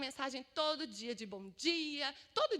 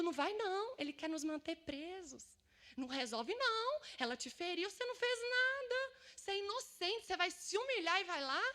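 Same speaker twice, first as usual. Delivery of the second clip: lightly voiced tempter, higher pitch; devil's dissuasion; 5 semitones higher than usual. Devil telling her not to reconcile, insistent dissuasion. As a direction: talk them out of it, lightly acting the devil. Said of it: "do diabo dizendo".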